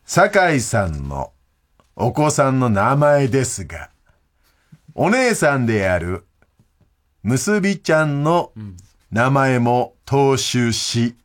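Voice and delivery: slow, deliberate mail read-out; listener mail reading. Acted. Host presenting a listener's baby-name idea, measured mail reading. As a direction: read it out slowly, phrase by phrase.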